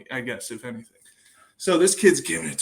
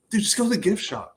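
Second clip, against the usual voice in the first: laughing retort; 7 semitones higher, faster than usual. Retold or imitated. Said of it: "I'm like".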